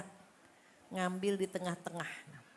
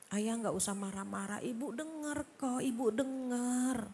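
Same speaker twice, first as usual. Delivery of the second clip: calm him down softly; soft gentle wife. Retold or imitated. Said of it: "dengan suara yang lembut".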